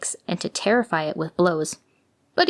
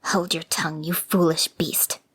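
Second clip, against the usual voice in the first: scolding; 3 semitones lower than usual. Acted. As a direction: snap it at the dog under your breath. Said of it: "scolded the woman".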